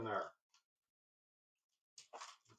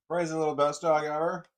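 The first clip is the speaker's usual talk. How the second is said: louder, bouncy praise for a dog; louder excited praise; 5 dB louder than usual. Real, not acted. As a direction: burst out with it, louder.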